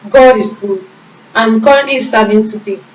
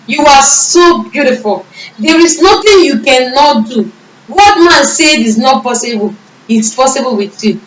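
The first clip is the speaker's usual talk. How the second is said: fervent praise; 3 semitones higher than usual. Retold or imitated. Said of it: "started worshiping and praising God".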